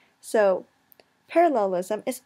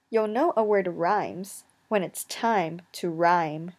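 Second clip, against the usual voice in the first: slow memory rhyme; 2 semitones lower, slower than usual. Shown as a demonstration. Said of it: "So here's your memory tip".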